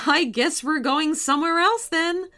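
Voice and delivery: tickled and resigned, voice lifted; amused. A narrator's reading. Mom as the car lifts off, mildly amused. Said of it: "laughed M J's mom".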